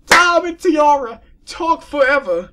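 high loud mock call; loud joking cry. Real, not acted. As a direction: tease loudly.

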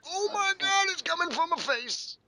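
high startled cry; shocked. Real, not acted. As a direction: yelp in surprise. Startled by enemy fire.

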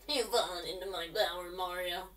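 a hint of a menacing villain; mock-villain taunt at Mario; lightly voiced Bowser. Gamer voicing Bowser taunting Mario, lightly menacing.

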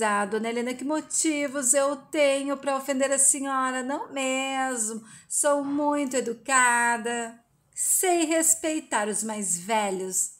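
lightly acted sarcastic sweetness; cynical mock politeness. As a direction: stretch the words in feigned courtesy. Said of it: "sua cínica".

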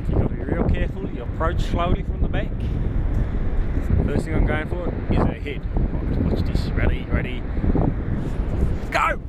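loud, keen wildlife-wrangler; loud excited. Pretend. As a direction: shout it mid-wrestle. Loud excited croc-wrestling host.

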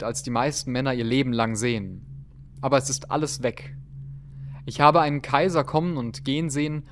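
story narration. Acted. Reads whaler's diary aloud.

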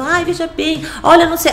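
high, mock-polite stalling voice; imitating a hedging attendant. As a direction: play the attendant stalling her. (imitando a atendente enrolando)

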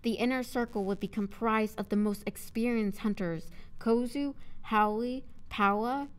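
deliberate read with names rising in a list; measured audiobook narrator; story narration. A narrator's reading. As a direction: narrate clearly, lifting each listed name.

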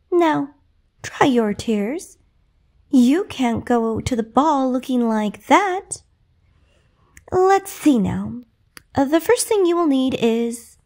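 calm her tears kindly; lightly voiced kind fairy godmother; gentle. Fairy godmother comforting Cinderella.

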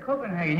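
Copenhagen said koh-pen-HAH-gen; anglicized Copenhagen, not Danish København; American pronunciation. Retold or imitated. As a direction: say all four syllables of Copenhagen with a hard g. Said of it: "You were just talking American".

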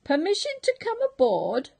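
high, loud and fast eager shout; a big excited upward shout. Acted. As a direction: shout it up to the deck. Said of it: "shouted Rufus".

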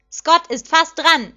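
loud, high, drawn-out call; excited commentator's shout. A narrator's reading. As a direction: shout the play as it happens. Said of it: "schrie der Kommentator aufgeregt".

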